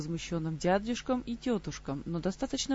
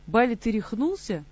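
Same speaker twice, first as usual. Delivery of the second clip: horrified cry, louder; 4 semitones higher, 7 dB louder than usual. Acted. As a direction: gasp it out in horror. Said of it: "ужаснулась тётя".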